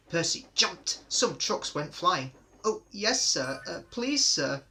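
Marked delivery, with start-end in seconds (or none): 2.6-4.6 high, jittery and louder; nervous. A narrator's reading. Frightened little engine answering the controller, nervously. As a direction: stammer it out in a flutter. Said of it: "You look nervous".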